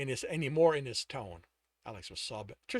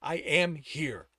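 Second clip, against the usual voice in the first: through gritted teeth; 4 dB louder, slower than usual. Acted. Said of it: "through gritted teeth".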